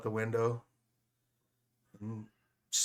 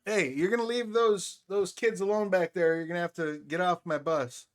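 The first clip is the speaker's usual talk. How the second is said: stern bus driver; 6 semitones higher than usual. Acted. Bus driver scolding the vagrant.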